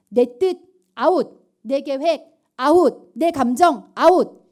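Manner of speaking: slow, loud, punching each 아웃; emphatic. Real, not acted. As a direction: hammer each phrase out. Emphatic sermon chant.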